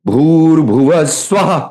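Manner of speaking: ভূর্ভুবস্সুবঃ said slowly, final visarga a breathy ha; বিসর্গ শ্বাস ছেড়ে হা; breathed visarga. Shown as a demonstration. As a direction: push the last হা out from the navel. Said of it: "হা যখন হচ্ছে".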